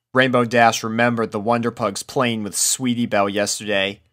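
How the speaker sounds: usual speaking voice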